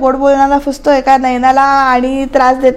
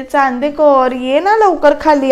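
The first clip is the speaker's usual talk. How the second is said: longing call; slower than usual. Retold or imitated. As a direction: draw it out, wishing he would come. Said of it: "असं म्हणते".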